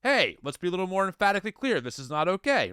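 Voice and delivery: mildly firm, quick parental correction; a touch of parental firmness. Pretend. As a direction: lay down the rule briskly, without real anger. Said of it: "you know, firm".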